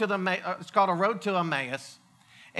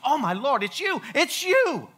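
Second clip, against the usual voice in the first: slow, higher, awestruck realization; awed recognition; 5 semitones higher than usual. Retold or imitated. Mary recognizing Jesus at the tomb, awed. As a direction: let it dawn on her, slowly. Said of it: "all of a sudden she goes".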